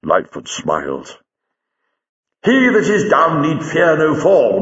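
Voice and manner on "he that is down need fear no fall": high, ringing recitation; declaimed quotation. Acted. Lightfoot quotes Bunyan to Jago, declaiming. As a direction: proclaim it like a pious maxim.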